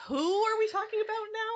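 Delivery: mock bafflement at the names; confused. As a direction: play the lost reader, pitch up. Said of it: "I'm like".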